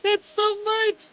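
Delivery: high, choked-up gratitude; tearful thanks. Real, not acted. Streamer thanking gifters for so much, tearful. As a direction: pitch held high as if about to cry.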